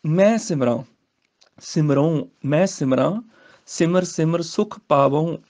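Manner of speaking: ਸਿਮਰਾਂ and ਮਿਟਾਵਾਂ with a nasal ending; ਸਿਮਰਾਂ ਨਾਸਕੀ ਉਚਾਰਨ; nasal pronunciation. Shown as a demonstration. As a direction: let the ending of ਸਿਮਰਾਂ ring through the nose. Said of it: "ਨਾਸਕੀ ਉਚਾਰਨ ਨਾਲ ਹੋਏਗਾ".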